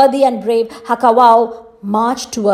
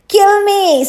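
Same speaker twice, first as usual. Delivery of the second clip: defeated rage; 10 semitones higher than usual. A narrator's reading. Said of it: "He ground his teeth with rage".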